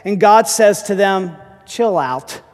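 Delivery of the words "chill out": low, unhurried reassurance; imitating a calm divine voice; calm command. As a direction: drop low to settle a panic. Preacher voices God calming Israel.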